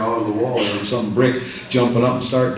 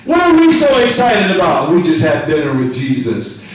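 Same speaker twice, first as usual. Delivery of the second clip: raised, exclaiming rhetorical question; excited preaching; 4 semitones higher, 5 dB louder than usual. Real, not acted. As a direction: burst out to the congregation.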